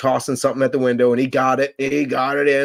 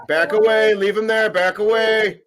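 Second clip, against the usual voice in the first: imitated order; 7 semitones higher, 5 dB louder than usual. Acting out an order from the video.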